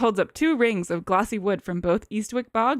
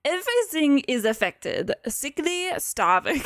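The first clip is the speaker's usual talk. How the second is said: shaky attempt at a French accent; muddled French-ish accent; 4 semitones higher, slower than usual. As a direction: try a French jerk doctor. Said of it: "trying to be, like, French".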